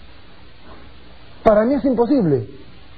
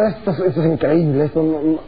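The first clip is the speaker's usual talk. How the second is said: lower, mocking disbelief; scoffing Sara; 5 semitones lower than usual. Sara scoffing at the promise, mocking disbelief. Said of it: "se burla".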